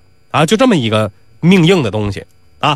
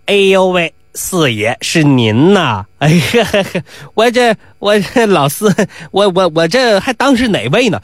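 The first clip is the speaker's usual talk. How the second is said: fawning chuckle; 3 semitones higher than usual. Acted. Doorman fawns with chuckles on Nisi.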